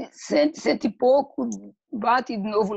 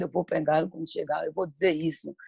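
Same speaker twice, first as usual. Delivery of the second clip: lower, quicker imitation of a wife grumbling; resmungo imitado; 4 semitones lower, 4 dB quieter, faster than usual. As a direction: grumble it to yourself, half acted. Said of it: "passa o dia todo resmungando". (resmungo baixinho, de imitação)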